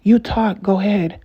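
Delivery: re-enacted fed-up concession; imitated exasperation. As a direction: hand over the floor in mock surrender. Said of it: "and you'll tell them".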